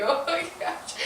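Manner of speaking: high, soft gasped words; hushed shock. Retold or imitated. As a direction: squeak it quietly in awe. Retold awe at the crowd.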